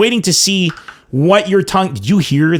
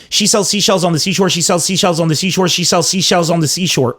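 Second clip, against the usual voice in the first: quick tongue twister rattled off without a break; brisk, rhythmic repeats; rapid tongue twister. Shown as a demonstration. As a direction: race through it, one repetition into the next. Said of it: "Am I supposed to say that three times?".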